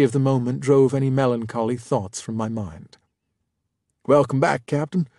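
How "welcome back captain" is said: relieved welcome, slightly louder. A narrator's reading. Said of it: "Duras said with relief".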